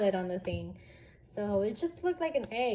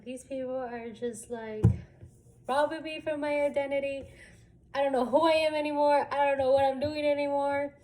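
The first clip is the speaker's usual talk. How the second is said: higher, rising exasperated complaint; retold distress; 5 semitones higher, 4 dB louder than usual. Recruit lamenting her lost identity, retold distress. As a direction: build to a high, overwhelmed protest.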